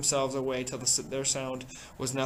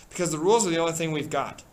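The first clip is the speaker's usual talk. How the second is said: fast, louder insistence; urgent shout; 3 semitones higher, 6 dB louder, faster than usual. Acted. Ralph insisting on the rules, urgent shout. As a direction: hurl it back quickly.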